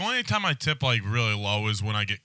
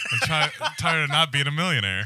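laughing lament; 6 semitones higher, 6 dB louder than usual. Real, not acted. Joking lament while laughing.

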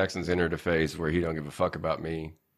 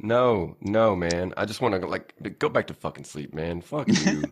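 mock grumpy; 3 dB louder than usual. Mock grumpy reply to son.

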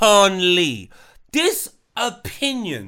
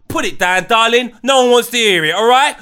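loud telling-off; 2 semitones higher, 5 dB louder than usual. Acted. Telling her off loudly.

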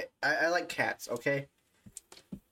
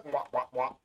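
Pac-Man kisses. Retold or imitated. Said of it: "kissing him like Pac-Man".

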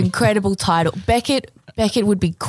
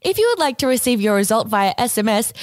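robot voice. Acted. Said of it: "can I do a robot voice?".

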